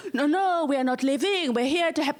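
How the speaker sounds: comic attempt at a French accent. French ambassador refusing to leave, in a mock French accent. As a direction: protest in a lightly put-on French accent. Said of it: "That's a French accent, by the way".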